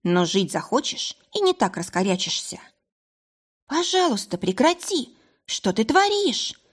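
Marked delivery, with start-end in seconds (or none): 3.7-6.6 much higher, panicked screaming; terrified shriek. Acted. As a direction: shriek in terror. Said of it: "завизжала Эйла".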